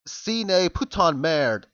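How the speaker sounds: "Sine putain merde" read out slowly, word by word in an amateur French accent. Shown as a demonstration. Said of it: "That's supposed to be".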